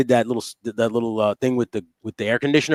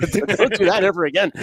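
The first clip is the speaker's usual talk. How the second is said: high-pitched quote through laughter; mock scolding that breaks into laughs; laughing acted plea; 9 semitones higher than usual. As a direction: imitate a horrified warning, cracking up. Acts Kramer's plea while laughing.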